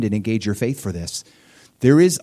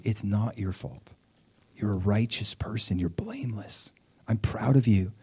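softer, tender voice of absolution; gentle reassurance; 8 dB quieter than usual. Retold or imitated. The Lord comforting a blameless believer, gentle reassurance. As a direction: reassure them softly and sincerely. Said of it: "the Lord would say".

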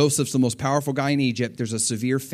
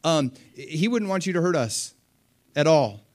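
nervous pleading; 4 semitones higher than usual. Retold or imitated. Brothers pleading nervously with Joseph.

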